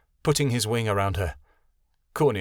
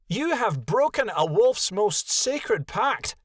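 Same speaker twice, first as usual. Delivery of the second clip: slow, higher stern snap; a she-wolf's measured rebuke; snapped; 10 semitones higher, slower than usual. A narrator's reading. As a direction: lay down the law, slow and cold. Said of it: "Konya snapped".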